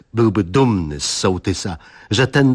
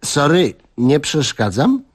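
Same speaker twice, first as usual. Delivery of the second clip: slower, light call from the door; calling from doorway; 5 semitones higher than usual. Acted. Young guest calling in from the doorway, lightly. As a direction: call in from the threshold, half-casual. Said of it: "zawołał od progu".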